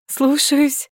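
high, bright playful salute; happy. A narrator's reading. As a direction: answer beaming with a smile. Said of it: "Счастливо улыбалась я".

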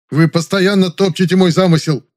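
high, loud angry complaint; relentless indignant shout; persistent indignation. Acted. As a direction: keep pushing, furious. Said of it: "не унимался Завадский".

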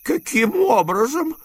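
a sharp, high demand; sharp question. A narrator's reading. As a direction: snap the question at him. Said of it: "резко спросил дядя". (резкий вопрос дяди)

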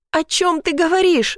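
a high, tearful question; girl sobbing to her violent father, voice pitched high. A narrator's reading. Girl sobbing at father who grabbed her hair, high and tearful. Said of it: "всхлипнула я".

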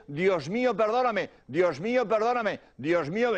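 retold prayer at full voice; woman urging victims. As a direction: lead others in the prayer, clearly audible. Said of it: "se asomó a la ventanilla y dijo". (mujer que guía la oración, voz plena)

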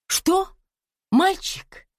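high, loud cry of surprise; excited shout. A narrator's reading. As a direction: call out, stunned by the news. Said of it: "закричала она". (взволнованный крик)

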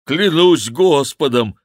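high, loud, slow oath; monk swearing. Acted. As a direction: swear by the Lord in protest. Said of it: "ответил монах".

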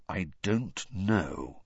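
slow, hesitant Sirius; slowly. Acted. Sirius unsure of the plot, slowly. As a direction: draw it out, unsure. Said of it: "said Sirius slowly".

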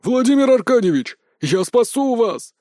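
shrill heroic squeal; squealing cry. Acted. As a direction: squeal it like a hero in a film. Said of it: "заверещал Апраксин".

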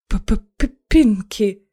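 choked hoarse stammer; hoarse stutter. Acted. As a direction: croak out the name, stuttering. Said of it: "прохрипел".

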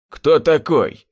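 sharp, loud demand; barked question. A narrator's reading. Butcher confronting the stranger, barking loudly. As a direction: bark it at the stranger. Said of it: "рявкнула росомаха".

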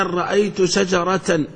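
slow, deliberate example phrase. Shown as a demonstration. Teacher giving an example sentence to the class, slowly. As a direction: lay the example out word by word. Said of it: "تقول مثلًا".

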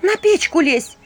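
high, loud shouted order. A narrator's reading. Vasilisa shouts at the girl to get on the stove, loud and high. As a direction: yell at her to climb up. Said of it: "крикнула Василиса".

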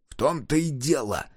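mild disgruntled mutter; grumbling. A narrator's reading. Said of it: "проворчал Ухмыл".

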